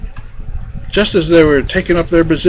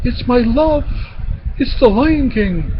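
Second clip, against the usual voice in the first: high-pitched, lightly voiced happy queen; smiling queen; 10 semitones higher than usual. A narrator's reading. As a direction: say it with a queen's smile. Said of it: "And the queen smiled".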